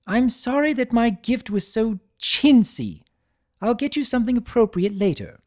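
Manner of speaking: high, elegant lady voice, hedging; Rarity, refined and evasive. A narrator's reading. Rarity hedging to Twilight in her refined voice. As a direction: lift into Rarity's genteel register.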